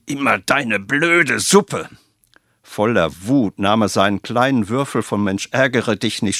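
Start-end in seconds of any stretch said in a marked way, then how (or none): 0.1-1.9 put-on slow, high childish sulk; sulky stamping boy. Angry Franz complains about his father's soup, slow and sulky. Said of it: "stampfte mit beiden Beinen".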